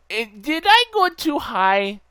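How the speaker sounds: high, loud, drawn-out wondering; playful high-pitched question. Real, not acted. Player wondering aloud what broke the game, high-pitched puzzlement. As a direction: stretch it out in a high voice.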